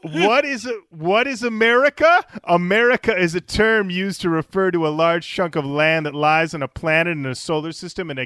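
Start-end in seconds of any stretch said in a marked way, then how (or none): 0.0-4.8 raised, grand mock-profound delivery; mock dramatic reading.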